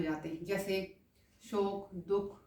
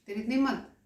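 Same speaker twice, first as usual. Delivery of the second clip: sharp, louder angry outburst; angry demo; 3 semitones higher, 5 dB louder, faster than usual. Shown as a demonstration. Teacher demonstrates an angry exclamation, raised voice. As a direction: snap it like you're offended. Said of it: "गुस्से में क्या करते हैं".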